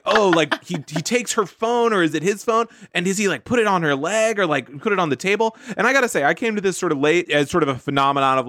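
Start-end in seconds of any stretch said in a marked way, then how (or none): 0.0-5.6 higher, breathless sleuthing commenter; nosy internet sleuth. Retold or imitated. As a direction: pore over it like a detective. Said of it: "They're like".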